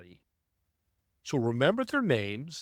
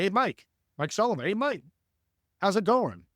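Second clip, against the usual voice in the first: bright, higher, friendly hello with the first name; warm greeting by name; 6 semitones higher than usual. Shown as a demonstration. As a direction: greet him like an old buddy, using his name. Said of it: "we're gonna say".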